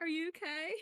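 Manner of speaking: laughing, bubbling, speaking through laughter. Narrating a story, a woman rushes to a man who hit a tree: laughing while asking. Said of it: "rushes to him in a laughing".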